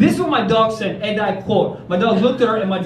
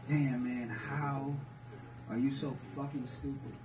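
mock scolding; 10 semitones lower, 17 dB quieter than usual. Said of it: "And I was like".

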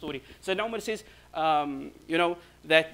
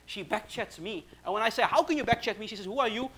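animated retold banter, climbing high and louder; lightening the mood; 5 semitones higher, 3 dB louder than usual. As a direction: play up a husband's mock complaint to cheer a friend. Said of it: "he wants to lighten the mood".

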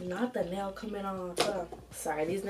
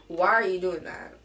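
firm louder scold with stress on are; scolding again; 5 dB louder than usual. Shown as a demonstration. Vlogger repeating the scold to show her tone, sharp. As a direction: demand an answer from the kids. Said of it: "You hear my tone change?".

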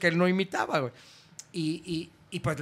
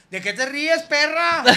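higher, louder camp snap; sassy camp retort; 9 semitones higher, 6 dB louder, slower than usual. Retold or imitated. Drag performer scolds the laughing caller, sassy camp. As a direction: sass him back like a diva. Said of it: "Y me dice".

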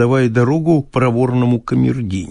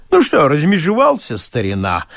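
mock peasant speech; 3 semitones higher than usual. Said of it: "желал подделаться под мужицкую речь".

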